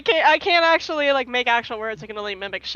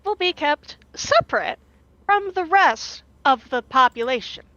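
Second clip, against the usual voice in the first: creepy scientist, starting higher; creepy lady; 3 semitones higher than usual. Acted. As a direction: answer as an eerie lady researcher. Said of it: "Zalika is a creepy lady".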